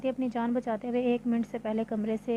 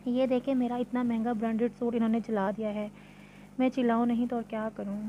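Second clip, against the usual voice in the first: quick, heated complaint to her mother; spoiled daughter venting at mom; mild angry outburst. Acted. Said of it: "गुस्से से बोल रही थी".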